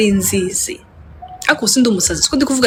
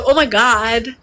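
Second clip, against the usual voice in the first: high giddy hello breaking into laughter; seeing herself on screen, laughing hello; 6 semitones higher, much slower than usual. Retold or imitated. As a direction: greet the camera through giggles. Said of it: "I was like".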